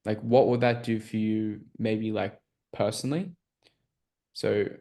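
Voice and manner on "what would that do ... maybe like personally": personally lifted and leaned on, rising at the end; stress on personally. Shown as a demonstration. Sales coach to team, stressing personally. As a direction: lean into "personally" with a rising lift. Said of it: "emphasizing the word personally".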